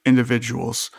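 measured game master narration; scene-setting narration. A narrator's reading. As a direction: lay out the scene deliberately.

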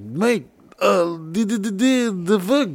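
hint of a bad Irish brogue, confused; mock brogue. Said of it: "He spoke really horrible, like, brogue English".

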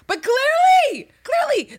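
very high, slow, sing-song clearly; exaggerated emphasis. Real, not acted. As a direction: stretch it out sarcastically. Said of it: "exaggerated emphasis on clearly".

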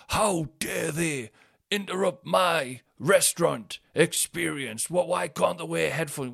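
high, slow, affronted whine; mock entitled self. Complaining about kids in a restaurant, mock entitled whine. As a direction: play your old entitled self, outraged. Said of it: "how entitled I used to be".

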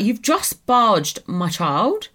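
slow, drawn-out mild indignation; retold indignation. Mum telling off the woman in Hamleys, slow and affronted. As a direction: spell it out slowly, affronted. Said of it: "I was like".

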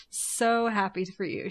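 strained, slowed forced congratulations; through gritted teeth. Pretend. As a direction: grit your teeth and say it slowly. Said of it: "she says through gritted teeth".

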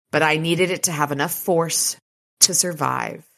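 measured, dramatic audiobook reading; story narration. A narrator's reading. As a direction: read the action scene evenly and deliberately.

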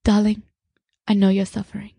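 a light hint of the monk's accent, voice barely shifted; half-hearted take on his accent, affectionate; Thich Nhat Hanh accent. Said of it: "I wanna do the accent 'cause his accent is so cute".

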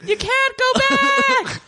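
laughing. Real, not acted. Laughing at the Branson bit.

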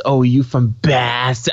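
put-on Boston accent with a slow, stretched "Bass"; mock Boston accent. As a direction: imitate people overdoing a Boston accent. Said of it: "everyone always says".

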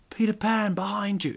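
high panto call-out; audience shouting. Retold or imitated. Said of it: "are shouting out".

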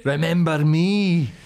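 slow, loud spooky voice; ghostly menace. Pretend. Friends joking, a spooky slow haunting voice. Ghostly black pudding threat.

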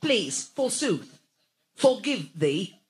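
glitch into a stuck loop; robot short-circuiting. Acted. Robot prince breaking down, repeating please like a glitch. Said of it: "she's short-circuiting".

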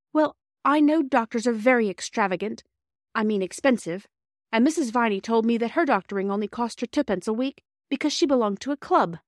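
a hint of an earnest child explaining; earnest girl Bobby. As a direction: explain it like an anxious-to-please girl, lightly done. Narrator voices young Bobby.

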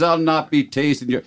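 indignant stage-Irish, cut short; horrible Irish accent. Acted. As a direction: protest in a hammy Irish brogue. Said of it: "your horrible accent that makes the joke".

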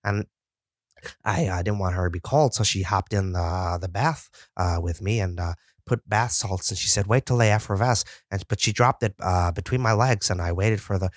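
deadpan rambling interview voice, lightly put on; Lance Stroll parody. Host spoofing the driver's interview with a lightly voiced rambling story. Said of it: "Lance Stroll, uh, today".

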